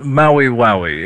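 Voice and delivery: drawn-out aristocratic announcer; George Plimpton. Pretend. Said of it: "it has to be like George Plimpton".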